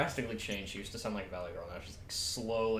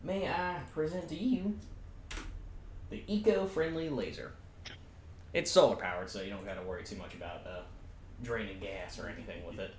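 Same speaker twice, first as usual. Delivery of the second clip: Pippi voice. Acted. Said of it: "my Pippi voice".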